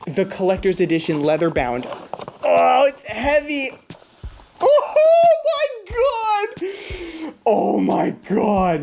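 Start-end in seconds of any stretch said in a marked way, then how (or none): 2.4-8.8 high squeal breaking into laughter; soaring, laughing exclamation that drops away; astonished delight. Real, not acted. YouTuber lifting the heavy collector's edition, astonished.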